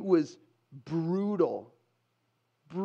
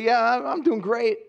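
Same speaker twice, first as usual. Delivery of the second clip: slightly higher, put-on cheer; fake upbeat answer; 4 semitones higher, 3 dB louder than usual. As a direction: brush it off as if all is well. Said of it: "fake garbage answer".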